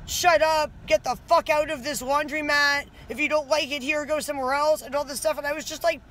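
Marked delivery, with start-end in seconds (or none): 0.0-4.8 mild mock yell. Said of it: "yell at me and curse at me".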